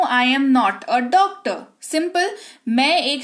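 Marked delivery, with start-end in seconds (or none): 0.0-1.6 slow, even, word by word; slow model sentence. Shown as a demonstration. Teacher modelling the English sentence slowly. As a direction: read it slowly so students follow. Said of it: "मैं एक चिकित्सक नहीं हूँ".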